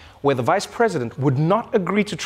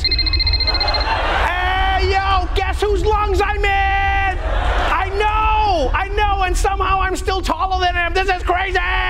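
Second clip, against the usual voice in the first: shouting to friends; 11 semitones higher, slower than usual. Pretend. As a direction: yell it to your boys on FaceTime. Covid calling its friends.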